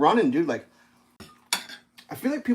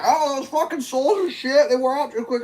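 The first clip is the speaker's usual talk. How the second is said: much higher, whiny mocking voice; mocking the commenter; 11 semitones higher than usual. Mocking a commenter who complains the soles wear out, in a high whiny voice. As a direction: squeak it out like a clueless critic. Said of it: "this dude's like".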